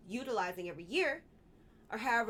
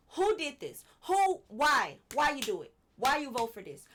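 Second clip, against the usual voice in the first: worked up; 3 semitones higher, 7 dB louder than usual. Real, not acted. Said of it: "I'm getting worked up".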